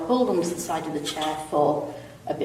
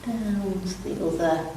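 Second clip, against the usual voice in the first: calm, unhurried stretch instructor; easy, even yoga-class delivery with long pauses; guided relaxation; 5 dB quieter than usual. Real, not acted. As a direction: guide them gently through it, pausing between phrases. Leads gentle seated stretches.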